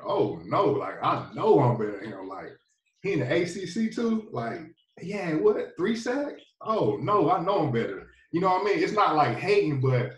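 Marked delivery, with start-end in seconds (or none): 0.0-8.1 higher, scoffing retold inner rant; indignant disbelief. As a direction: scoff like you can't believe who got picked. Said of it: "and you like".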